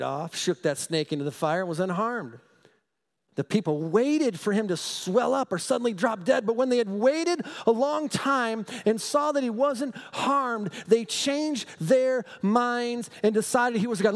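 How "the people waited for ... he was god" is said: raised, fervent Bible reading; scripture reading. Acted. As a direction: read the verse like good news to the flock. Reads scripture with fervour.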